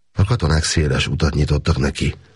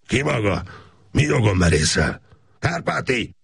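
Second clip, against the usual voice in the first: bellowing boss; 9 semitones higher than usual. Acted. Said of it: "Ordította a főnök".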